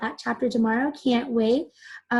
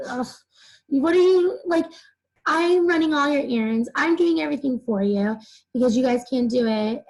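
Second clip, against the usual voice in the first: mock exasperation, lightly acted; Templeton. Teacher voices upset Templeton complaining about errands, mildly exasperated. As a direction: grumble like an overworked, upset helper. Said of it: "Again, he's upset".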